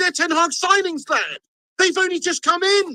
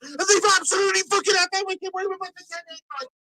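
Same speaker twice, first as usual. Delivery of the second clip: higher, frantic running commentary on the goal; agitated live reaction; 4 semitones higher than usual. Real, not acted. Fan reacting to Spurs scoring against United, agitated. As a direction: call the goal as it hurts you.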